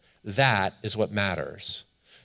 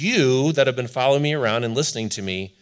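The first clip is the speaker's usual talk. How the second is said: voicing Jesus; 3 semitones higher, 6 dB louder than usual. Preacher voicing Jesus to disciples.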